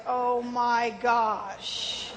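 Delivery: very slow, drawn-out oh my gosh; stunned psychiatrist. Retold or imitated. A psychiatrist after a three-hour story, slow and stunned. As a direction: let the shock stretch every word. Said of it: "the psychiatrist was like".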